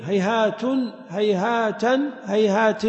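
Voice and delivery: هيهات with nunation, hayhātin, hayhātan, hayhātun; هيهاتا drawn out as hayhātan; with tanween. Shown as a demonstration. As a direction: add the -n ending to each هيهات. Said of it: "الخامسة بالتنوين".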